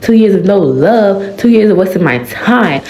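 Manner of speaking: fed up and finally pushing back. Acted. Ray raising his voice at Pride, mildly angry. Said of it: "raising his voice at me".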